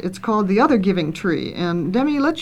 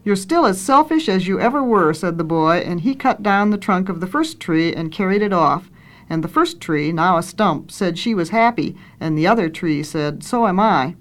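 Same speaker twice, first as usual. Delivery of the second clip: storybook reading with lightly lifted dialogue; story narration. A narrator's reading. Reader tells how the boy grew up, story narration. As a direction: read a children's tale aloud, lifting the questions.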